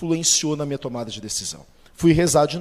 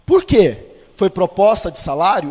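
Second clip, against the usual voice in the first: raised, louder startled question; surprised boss; 3 semitones higher, 7 dB louder than usual. Retold or imitated. Boss surprised by his employee quitting, raised voice. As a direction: boss caught off guard by resignation.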